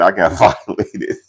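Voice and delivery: lightly imitated cousin, breaking into a laugh; imitating cousin. Teller repeating his cousin's complaint, amused imitation. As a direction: quote him and crack up midway. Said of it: "That's how he said".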